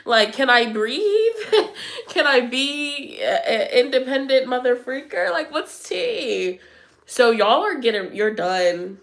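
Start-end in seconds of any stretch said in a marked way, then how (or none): 0.1-2.1 laughing. Real, not acted. Laughing through mock complaint. 5.3-6.6 slow drawn-out question. Real, not acted. To her viewers, slowly asking what the gossip is.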